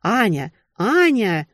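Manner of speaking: high, loud call of a name; calling out urgently over the din; shrieking over music. A narrator's reading. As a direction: shout to be heard over a blaring club. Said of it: "завизжал в самое ухо, стараясь перекричать".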